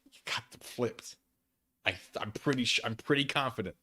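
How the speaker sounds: ordinary talk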